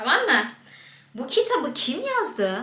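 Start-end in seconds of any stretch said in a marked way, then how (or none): 1.1-2.6 question tune rising on yazdı, as a real question. Reading a sentence aloud as a question: questioning intonation. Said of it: "Ve soru sorar gibi okuyorum".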